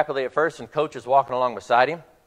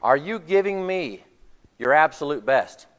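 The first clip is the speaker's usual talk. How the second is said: slow, drawn-out urging question; insistent questioning; slower than usual. Retold or imitated. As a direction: press the player for an answer, stretching it out. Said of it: "he keeps asking one question".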